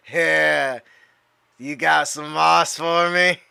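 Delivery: slow, drawn-out stoner request. Acted. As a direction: stretch it out like a stoner on an intercom. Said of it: "I gotta put on my stoner voice".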